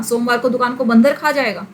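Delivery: बंद रखा run together as "बंदर खा"; questioning misreading, बंद रखा heard as बंदर खा; misread word break. Shown as a demonstration. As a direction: attach the र to बंद, leaving खा on its own. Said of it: "बंद और र एक साथ".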